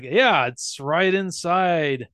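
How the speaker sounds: brainwashed monotone. Retold or imitated. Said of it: "He's like".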